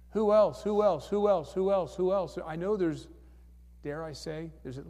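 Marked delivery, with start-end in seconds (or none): 0.1-2.4 calling out. Real, not acted. Calling out to the congregation.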